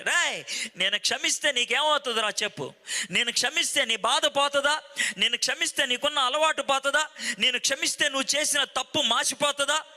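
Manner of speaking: a hint of exasperated mother firing questions; irritated. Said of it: "చాలా చిరాకుగా చేతులు విదిలిచ్చేసి".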